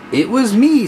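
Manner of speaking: cheeky platypus voice. Acted. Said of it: "said Gus the Platypus".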